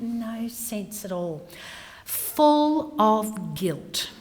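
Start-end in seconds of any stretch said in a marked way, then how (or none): 2.0-4.1 very slow breathy whisper; whispered phrase. Shown as a demonstration. Grieving mother naming her guilt, slow whisper. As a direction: let the words hang in a whisper. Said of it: "slow whispered phrase".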